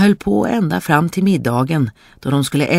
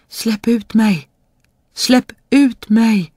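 high, drawn-out cry to be let out; trapped spirit calling; 8 semitones higher, slower than usual. A narrator's reading. Spirit in the bottle calls to the boy, high drawn-out calling. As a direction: call out slowly, pitched high, pleading for release. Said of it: "hörde pojken en röst som sa".

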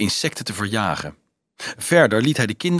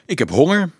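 higher, plainly put statement; matter-of-fact; 5 semitones higher, faster than usual. Acted. Pisan student answers the cheering children, matter-of-fact. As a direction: say it soberly, with no drama. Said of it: "zei de Pisaan nuchter".

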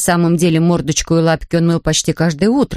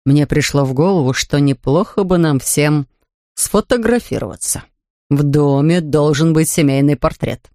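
a measured family father; Mr Brown; 4 semitones lower than usual. Acted.

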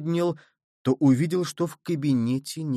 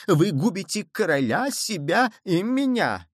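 frightened cry; 6 semitones higher than usual. A narrator's reading. Cowardly cardinal crying out to the queen in fear. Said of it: "этот крик, вырвавшийся из трусливой души".

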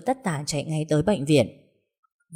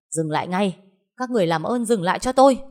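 helpless shout; 3 semitones higher than usual. Acted. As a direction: shout them apart from a hospital bed. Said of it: "Bất lực gào lên".

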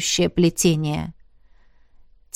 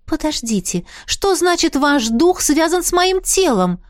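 much higher, stunned outcry; stunned exclamation; 7 semitones higher than usual. A narrator's reading. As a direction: cry out in disbelief. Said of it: "ошарашенно воскликнула". (ошарашенный возглас)

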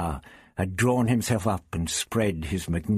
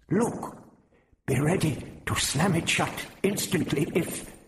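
urgent warning; 8 semitones higher than usual. A narrator's reading.

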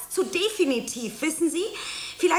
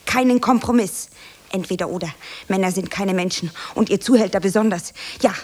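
low, loud, defiant tirade; dramatic monologue; 6 semitones lower, 3 dB louder than usual. Acted. Actress hurling her dramatic tirade at an imagined crowd, low and loud. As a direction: hurl it at the room.

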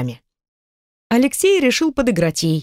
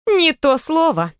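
pleased; 9 semitones higher, slower than usual. A narrator's reading. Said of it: "довольно заявила Наталья".

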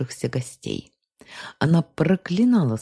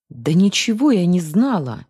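indignant outburst, a bit louder; 4 semitones higher, 5 dB louder than usual. A narrator's reading. Arina snaps back indignantly at her sister. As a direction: protest hotly that she knew nothing. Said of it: "негодуя ответила Арина".

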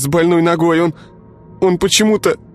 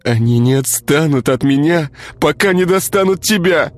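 put-on high, furious girl; 13 semitones higher than usual. A narrator's reading. Girl beats Igor, blaming.

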